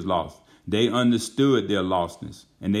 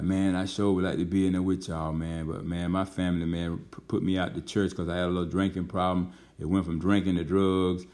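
softer, slightly lowered voice; subdued retold confession; 3 semitones lower, 4 dB quieter than usual. Outcast man confessing to the pastor, subdued and soft. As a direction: drop the energy, imitating a downcast admission.

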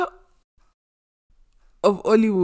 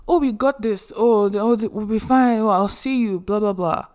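mock breezy reassurance; 3 semitones higher, 4 dB louder than usual. Voicing carefree goodbyes before moving.

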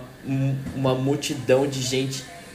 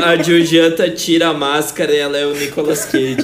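laughing; 3 semitones higher, 7 dB louder than usual. Real, not acted. Joking along, laughing.

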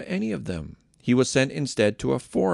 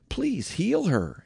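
higher, very slow pleading; begging; 8 semitones higher, much slower than usual. Acted. Family begging Jesus to heal the sick mother-in-law, slow and pleading. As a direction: plead slowly for her healing. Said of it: "everyone begged".

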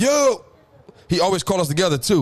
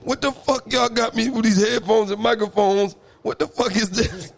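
dad voice; 3 semitones higher than usual. Retold or imitated. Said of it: "gotta use the voice".

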